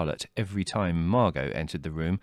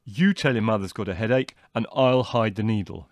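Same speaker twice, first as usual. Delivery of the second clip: mildly gleeful, clever suggestion; triumphant; 3 semitones higher, 4 dB louder than usual. A narrator's reading. Leslie proposing to hide the needle, triumphant. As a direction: announce the scheme with some triumph. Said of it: "suggested Leslie triumphantly".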